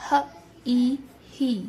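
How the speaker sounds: ای held long in ہ ای, then ہی; long drawn E. Shown as a demonstration. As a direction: stretch the vowel, then blend. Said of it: "ایک لمبی اور کھینچی ہوئی آواز". (ای کو کھینچ کر بولنا)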